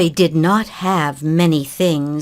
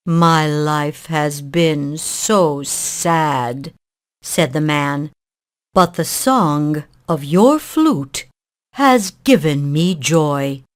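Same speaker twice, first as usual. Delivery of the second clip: put-on weary old man; 4 semitones lower than usual. Sad man speaks to boy.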